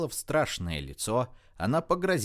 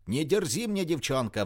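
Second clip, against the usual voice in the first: put-on enraged old man roaring at the girl; 6 semitones higher than usual. A narrator's reading. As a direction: roar her down. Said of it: "взревел Вершинин".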